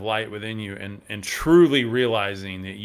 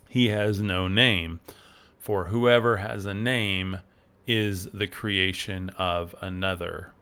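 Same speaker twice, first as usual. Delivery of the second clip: solemn reading. Acted. Reads the esoteric text aloud.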